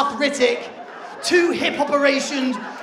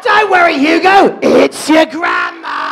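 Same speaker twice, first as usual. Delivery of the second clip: loud grandma reveal; 10 dB louder than usual. Retold or imitated.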